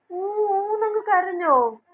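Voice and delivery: slow, high, drawn-out exclamation; mock astonishment. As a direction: act astonished for a baby. Reacting amazed to a baby's babble.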